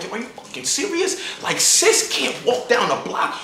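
exaggerated put-on delivery. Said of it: "now I'm fake black".

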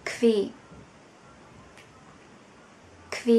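"kve" with a clear k before v; kv sound. Shown as a demonstration. Teacher shows how to read German qu. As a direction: say "kve", k straight into v. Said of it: "Chúng ta sẽ đọc là".

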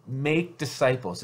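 "make" punched, words slowed; stress on make. Shown as a demonstration. Pastor urging congregation, stress on "make". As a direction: hit "make" as the main verb. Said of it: "something here that I emphasize".

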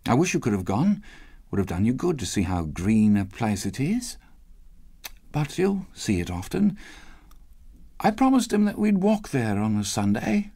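understated fatherly wistfulness; Bob, bravely wistful. Acted. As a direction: hold back grief while reassuring. Bob tells wife of the grave.

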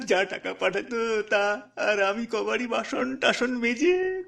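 a poor mother lightly voiced, recounting her loss with a touch of tears; grieving village mother. Mother telling the teacher about her daughter, gently tearful. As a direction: let the village mother's grief seep through, understated.

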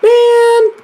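high loud cry of annoyance; frustrated yell. Real, not acted. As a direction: shout out in frustration.

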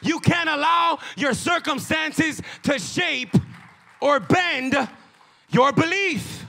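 slow, emphatic pulpit voice; forceful preaching. Real, not acted. Preacher urging the church to hold their belief, forceful preaching.

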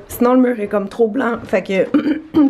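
hoarse, worn-out voice; lost voice. Real, not acted. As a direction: speak through a voice that's nearly gone. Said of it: "pardon, j'ai perdu ma voix".

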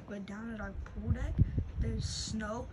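shivering from the cold. Real, not acted. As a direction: teeth chattering in the snow. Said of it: "I am freezing right now".

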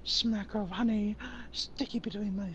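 breathy, pleading honey lust; lusty honey craving. Acted. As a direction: beg for honey like a fetish. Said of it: "You mean the honey fetish?".

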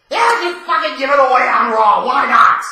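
bitter sarcasm building to a shout; sarcastic rant. Real, not acted. Mocking WWE's booking choice, sarcastic rising shout.

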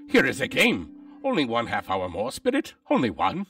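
put-on mildly childlike begging, pitch lifting; begging like a boy. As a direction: plead eagerly for a little longer. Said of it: "begged like a boy".

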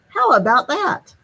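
put-on high delighted kids' voice; impressed children. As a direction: exclaim like pleased kids. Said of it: "The children all said".

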